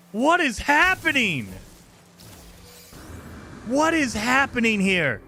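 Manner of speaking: high, slow exclamation of disbelief; bewildered disbelief. Real, not acted. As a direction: stretch out the question, baffled, easing down. Disbelief at what turns up.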